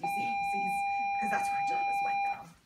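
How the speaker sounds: very high, loud excited point; excited exclaim. Real, not acted. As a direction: squeal it out to the class.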